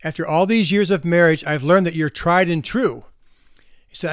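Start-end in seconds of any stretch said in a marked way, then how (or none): 0.0-3.0 raised a little so he can hear; repeating to a deaf husband, a bit louder; somewhat louder. Retold or imitated. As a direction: say it louder for the hard of hearing. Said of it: "she said in a louder voice".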